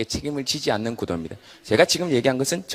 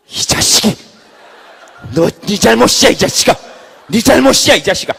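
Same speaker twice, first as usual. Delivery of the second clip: loud, angry yelling at the hand; furious scolding; 7 semitones higher, 13 dB louder than usual. Acted. Head yells at right hand, furious scolding. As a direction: blow up at the innocent right hand.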